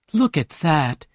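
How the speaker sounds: usual speaking voice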